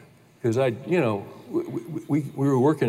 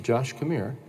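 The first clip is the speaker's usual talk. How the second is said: gentle call; 5 dB quieter than usual. Retold or imitated. Dad kneeling to calm son.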